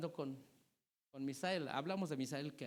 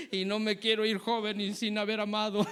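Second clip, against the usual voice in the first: dramatic youth; 6 dB louder than usual. Retold or imitated. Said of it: "¿Cuál es la prisa?".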